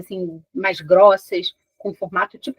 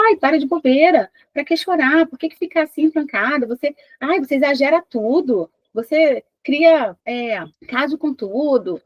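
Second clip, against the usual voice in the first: impatient, higher scolding, slowing on the last words; dismissive mother; 5 semitones higher than usual. Acted. Mãe impaciente ignorando o choro da filha, tom de desdém. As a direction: brush off the child's tears as silly.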